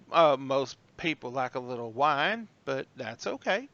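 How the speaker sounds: slow, light Southern drawl; Southern waitress accent. Acted. Waitress discussing drinks with guests, slow Southern accent. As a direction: take it slowly with a hint of Southern accent. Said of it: "You throw on that accent".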